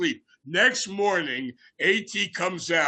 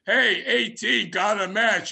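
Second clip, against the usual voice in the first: slow, raised teasing call; 5 semitones higher, 4 dB louder than usual. Retold or imitated. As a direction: draw it out to tease him. Teasing greeting retold.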